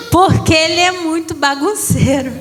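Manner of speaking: said through a laugh; amused, laughing about her restless son. Real, not acted. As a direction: laugh while telling it.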